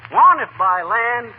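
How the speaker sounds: rally the troops across the river; orating Washington. Acted. McGee acting Washington's speech to Molly, grand.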